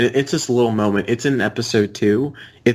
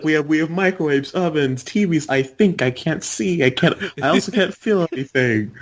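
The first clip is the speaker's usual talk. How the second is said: higher-pitched hammy salesman voice; Ants in My Eyes Johnson; 5 semitones higher than usual. Acted. Quoting a cartoon salesman to friends, higher put-on voice. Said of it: "he's like".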